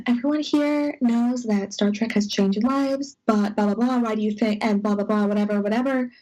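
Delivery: 1 mocking stock question. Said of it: "Uh, cookie cutter".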